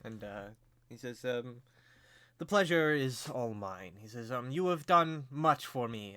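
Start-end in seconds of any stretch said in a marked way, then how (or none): 2.4-3.9 slow, courtly reply; gracious lord. Acted. Lord answers the guests' greeting. 4.5-6.1 slow, stately thanks; grateful lord. Acted.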